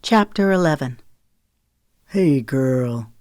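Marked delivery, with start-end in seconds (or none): 2.1-3.1 cooing. A narrator's reading. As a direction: coo lovingly at the dog. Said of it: "in a cooing voice".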